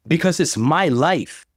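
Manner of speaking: drawn-out half-shout of defiance. A narrator's reading. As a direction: push each word out as a defiant mock yell. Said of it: "I shouted".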